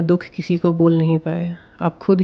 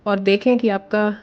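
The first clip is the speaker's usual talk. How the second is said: calm guided meditation voice with long pauses. Acted. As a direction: guide the listener gently into breathing, pausing between phrases. Leads a guided visualization. (शांत निर्देशित ध्यान की आवाज़)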